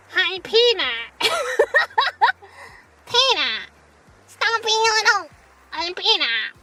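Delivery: a lightly voiced character, slow; her voice. Streamer attempts a character greeting Peanut, lightly voiced. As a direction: try her on tentatively. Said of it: "I have never attempted her voice".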